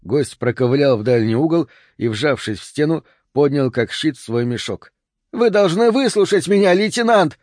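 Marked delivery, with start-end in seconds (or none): 5.3-7.4 high-pitched pleading squeal; визг. A narrator's reading. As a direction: squeal it at the lieutenant. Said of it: "визжал он". (визгливо, высоким голосом)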